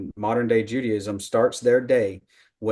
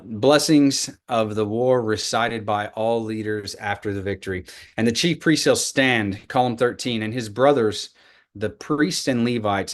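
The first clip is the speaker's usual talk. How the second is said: louder, deliberate reading aloud with words leaned on; emphatic scripture reading; 3 dB louder than usual. Shown as a demonstration. Teacher reading an ancient scroll to the class, emphatic reading. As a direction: read the scroll like a text being proclaimed. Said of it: "whenever I emphasize the words".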